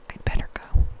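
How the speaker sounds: "I'd better go" barely voiced, hushed; near whisper. Shown as a demonstration. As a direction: redo the line as a breathy near whisper. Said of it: "Tibby said in a near whisper".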